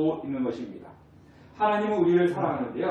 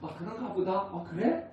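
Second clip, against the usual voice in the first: softer, mock-indifferent reply; indifferent shrug; 5 dB quieter than usual. A believer hearing of God's love, a lightly voiced indifferent shrug. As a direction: shrug it off like old news. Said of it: "뭐 그런 분도 계시겠지만".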